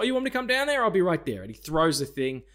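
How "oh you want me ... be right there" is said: cocky taunt. Retold or imitated. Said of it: "And he's like".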